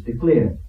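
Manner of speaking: "declare" singled out with weight; stress on "declare". Shown as a demonstration. Elder confirming the emphasis in verse eighteen, stressed "declare". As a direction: land firmly on "declare". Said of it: "the emphasis here in verse eighteen is".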